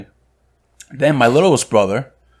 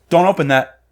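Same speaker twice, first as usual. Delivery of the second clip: higher-pitched scolding order; imitated sharp reprimand; 5 semitones higher, 3 dB louder than usual. Clerk to brother opening a cigar tube, imitated reprimand. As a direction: mimic a clerk cutting someone off.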